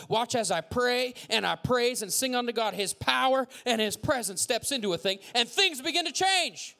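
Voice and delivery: building to high, forceful exhortation; climactic preaching. Real, not acted. Preacher urging praise over complaint, climactic preaching. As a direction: preach it upward to a peak.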